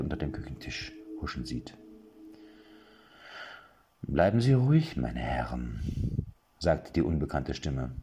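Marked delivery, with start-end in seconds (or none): 4.0-5.8 icy calm authority; cold older woman. Acted. Older woman calming the burglars, cold. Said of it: "Eine gewisse Kälte".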